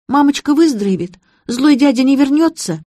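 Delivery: put-on high little-girl question; childlike girl. A narrator's reading. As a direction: ask anxiously like a small child. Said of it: "по-детски".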